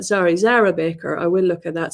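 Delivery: speaking while bent forward; hunched over on the floor. Real, not acted. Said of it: "Sorry, I'm hunched over".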